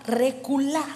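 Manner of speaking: "reculá" with stress on the final A; acento en la A. Shown as a demonstration. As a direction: say "reculá" slowly, landing on the last syllable. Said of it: "con acento en la A". ("reculá" con acento en la última A)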